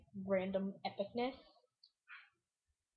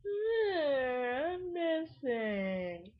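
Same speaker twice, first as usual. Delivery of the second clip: mock crying; 3 semitones higher, much slower than usual. Character vanished in game.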